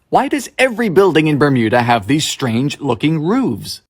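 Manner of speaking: low-pitched presenter narration; explainer narration. Acted. Presents facts about Bermuda.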